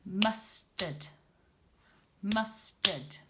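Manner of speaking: Mustard said as two beats; syllable demo. Shown as a demonstration. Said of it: "that one also has two".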